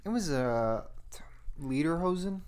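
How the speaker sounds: unvoiced whisper. Real, not acted. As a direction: whisper it under your breath. Unsure aside about a skirt.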